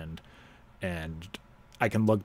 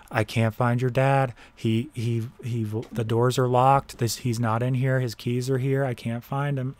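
raised, higher, louder retold panic; panicked grandmother; 4 semitones higher, 6 dB louder than usual. Grandmother on the phone, mildly frantic and raised. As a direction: imitate her frantic phone call. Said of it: "and she goes".

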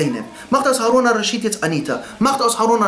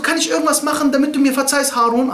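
Bahlul; 5 semitones higher than usual. Acted. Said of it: "Bahlul, der ist so".

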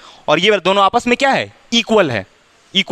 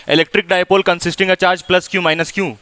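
slow reading; 3 semitones lower, much slower than usual. Shown as a demonstration. Teacher reads textbook line aloud.

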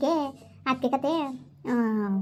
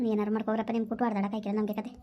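resigned grumble; 4 semitones lower, 5 dB quieter than usual. Acted. Grandmother done with the couple's quarrel, softly resigned. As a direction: lower and softer, giving up.

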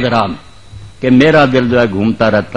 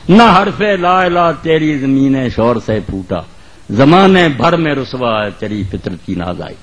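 poetry recitation. Acted. Preacher reciting Urdu verse to the congregation, measured declamation. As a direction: recite it line by line, letting vowels stretch. Repeats the couplet.

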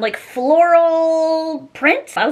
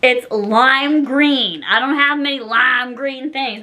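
odd put-on voice; slower than usual. Shown as a demonstration. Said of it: "I don't know why I'm talking like that".

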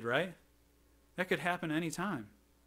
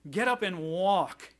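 bold, slow acted command; Peter; 2 semitones higher, 3 dB louder, slower than usual. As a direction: order it deliberately, word by word. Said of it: "Peter boldly looks at him".

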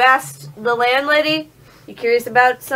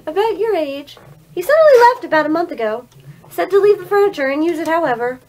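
put-on old lady voice; 4 semitones higher than usual. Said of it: "her old lady voice kills me".

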